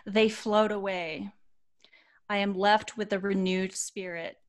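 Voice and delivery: measured reading with reflective pauses; sincere storytelling delivery; heartfelt read-aloud. Acted. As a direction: read a moving post aloud, phrase by phrase. Reads post, closing lines.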